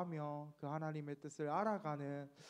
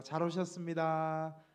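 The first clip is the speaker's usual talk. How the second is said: slow, loud welcoming greeting; louder, slow welcome for the congregation to copy; greeting demo; 7 dB louder than usual. Shown as a demonstration. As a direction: show everyone how to greet their neighbour. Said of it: "이렇게 한번 인사하시겠습니다".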